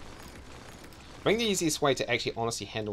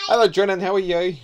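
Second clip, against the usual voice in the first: cheerful greeting; 9 semitones higher, 11 dB louder, faster than usual. Real, not acted. Greeting his child who walked in.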